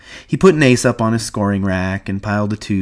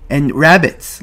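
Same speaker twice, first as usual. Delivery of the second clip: put-on higher, louder childlike eagerness; eager; 7 semitones higher, 6 dB louder, slower than usual. A narrator's reading. Lenny reminds George about the rabbits, eagerly. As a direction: burst in keenly. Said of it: "Lenny said eagerly".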